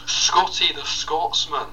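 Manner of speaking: high, drawn-out Scottish brogue; Scotty the Scotsman. Acted. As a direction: stretch it out in a Scottish voice. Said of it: "as a Scottish man called Scotty".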